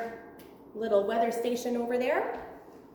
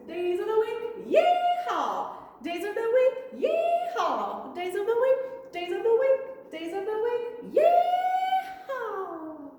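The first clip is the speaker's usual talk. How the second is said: cowboy voice; 8 semitones higher than usual. Shown as a demonstration. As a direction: holler it like a rodeo cowboy. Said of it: "Let's do cowboy voices".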